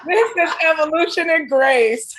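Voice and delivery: high and loud, laughing through the words. Real, not acted. Guest echoing the host's joke, laughing loud and high. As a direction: repeat the line and let the laugh break through.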